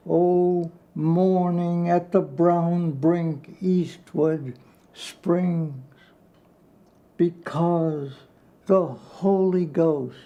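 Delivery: slow, intense reading of a sonnet; poem recitation. Acted. Poet reading his favourite poem aloud to listeners, slow and intense. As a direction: savour each word, letting the lines swell and fall.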